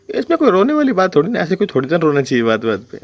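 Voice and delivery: high, prissy imitation of her; lightly mocking high voice; mocking Jasmine. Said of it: "कह रही".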